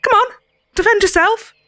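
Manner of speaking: put-on soft Cockney accent. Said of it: "A soft Cockney accent".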